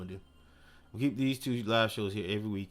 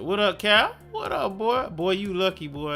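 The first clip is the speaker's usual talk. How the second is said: tags 1; 8 semitones higher, 5 dB louder than usual. Real, not acted. Greeting a viewer loudly.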